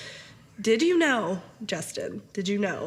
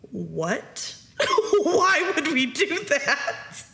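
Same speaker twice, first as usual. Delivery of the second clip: put-on horrified kid; 7 semitones higher, much slower than usual. Horrified son quoted.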